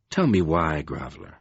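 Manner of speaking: loom over him with cold contempt; Lord Fowl menacing. A narrator's reading. Dark lord to kneeling Covenant, low menacing contempt.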